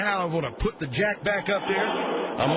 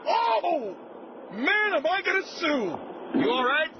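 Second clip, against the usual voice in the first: high, slow gleeful exclamation; mock glee; 14 semitones higher, much slower than usual. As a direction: savour the lawsuit thought. Host reacts to accident.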